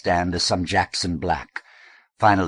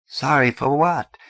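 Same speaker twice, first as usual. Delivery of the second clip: indignant; 9 semitones higher, 5 dB louder than usual. Acted. Eddie's quarrel with sister.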